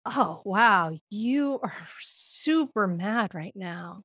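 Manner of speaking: slow, understated empathy; empathetic. Shown as a demonstration. Parent to a child mad at their brother, slow and empathetic. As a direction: gently reflect the feeling back, unhurried. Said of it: "empathetically reflecting back their feeling".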